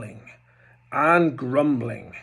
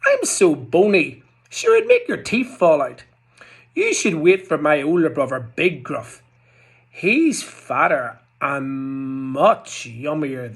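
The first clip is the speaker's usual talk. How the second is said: pleading goat; 5 dB louder than usual. Acted. Goat talks troll out.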